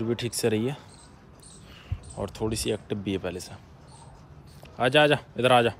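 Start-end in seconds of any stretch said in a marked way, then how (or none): 4.8-5.7 loud repeated summons; calling a dog back. Real, not acted. Owner to a dog heading out, calling it back. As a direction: call the dog back to you.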